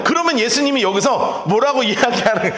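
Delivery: usual speaking voice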